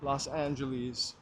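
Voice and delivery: put-on slow, old-Hollywood mid-Atlantic accent. Shown as a demonstration. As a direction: drawl it like a 1940s mid-Atlantic star. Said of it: "I like to say Los Angeles sometimes".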